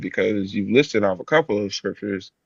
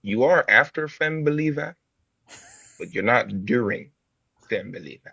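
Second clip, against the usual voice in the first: put-on African accent. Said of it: "You really have the African accent".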